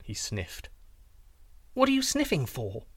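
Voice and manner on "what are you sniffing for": much higher princess voice; princess, boldly inquiring. A narrator's reading. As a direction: put a bold question in a high-pitched princess voice. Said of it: "the princess inquired rather boldly".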